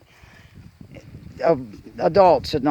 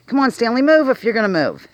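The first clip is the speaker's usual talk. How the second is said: higher, louder call to the mule; 10 semitones higher, 7 dB louder than usual. Real, not acted. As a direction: coax the mule along with a raised voice. Urging mule to move.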